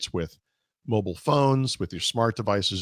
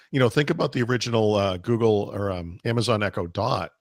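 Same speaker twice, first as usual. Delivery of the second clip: hoarse, voice giving out; losing her voice; 4 dB louder than usual. Real, not acted. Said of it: "I'm losing my voice here".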